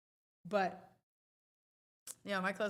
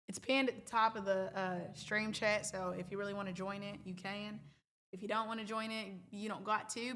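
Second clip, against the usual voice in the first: attempted American country accent. Shown as a demonstration. Streamer explaining the pinned link, country accent. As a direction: switch into a country accent, British creeping back. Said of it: "I tried to go country there".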